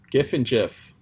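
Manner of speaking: "gif" with a hard g, then "gif" like jif; hard g then soft g. Shown as a demonstration. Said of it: "is it a gif or is it a gif".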